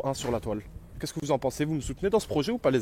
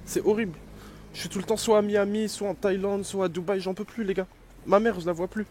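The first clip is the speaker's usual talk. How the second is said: mock breakdown; 4 semitones higher than usual. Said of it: "je suis désolé de craquer comme ça".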